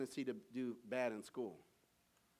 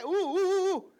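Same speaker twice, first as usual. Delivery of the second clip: very high, loud eager squeal; Horseshack; 14 dB louder than usual. Retold or imitated. Welcome Back Kotter fan imitating the eager student, high squeal. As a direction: squeal like a kid desperate to be called on. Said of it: "Remember Horseshack?".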